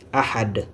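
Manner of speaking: "Ahad" ending firmly on a bare d; sukun stop. Shown as a demonstration. Teacher closes the end of the verse, "Ahad" stopped with sukun. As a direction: stop "Ahad" on its consonant, without -un. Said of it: "on s'arrête par l'accent soukoun".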